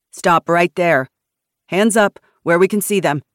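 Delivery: loud, forceful armed warning; shouted command. A narrator's reading. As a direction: shout an order to halt. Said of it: "Jason shouted".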